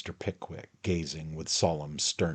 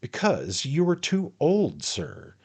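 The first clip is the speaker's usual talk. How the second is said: much higher, loud rebuke; excited; 11 semitones higher, 7 dB louder than usual. A narrator's reading. Pickwick, worked up, tells Tupman he is too old. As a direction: scold him sharply and high. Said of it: "considerably excited".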